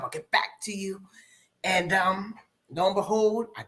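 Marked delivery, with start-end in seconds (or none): 0.0-1.0 whispered aside. Retold or imitated. Retelling her answer to the doctor, whispered. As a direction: breathe it out as a hushed aside.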